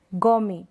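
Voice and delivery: गोमी ending on a vowel; silent T. Shown as a demonstration. Teacher modelling the silent T, गोमी without t. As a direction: say गोमी as "go-mee", no t. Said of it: "टी pronounce नहीं कर रहे".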